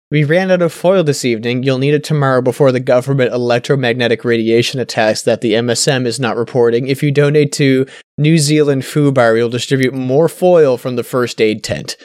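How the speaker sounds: bad New Zealand accent put on. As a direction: read it in a weak Kiwi accent. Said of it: "That was the worst New Zealand accent".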